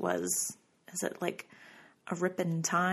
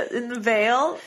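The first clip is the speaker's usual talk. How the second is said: spooky voice; 4 semitones higher, 5 dB louder, slower than usual. Pretend. Spooky Supernatural-style phrasing.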